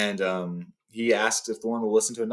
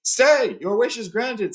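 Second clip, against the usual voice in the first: commanding shout; 11 semitones higher, 5 dB louder, slower than usual. Acted. Gandalf commands, interrupting.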